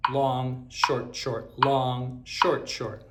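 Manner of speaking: calm even count of long short short; steady rhythm call. Shown as a demonstration. Teacher calling the doubled rhythm aloud. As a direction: call the pattern in steady time. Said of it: "now if I double that".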